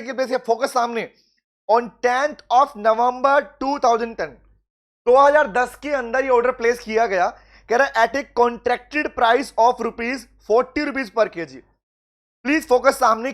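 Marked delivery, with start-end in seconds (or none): 1.7-4.3 slow question reading. Shown as a demonstration. Teacher reads exam question aloud. 7.9-11.6 slow question reading. Shown as a demonstration. Teacher reads exam question aloud.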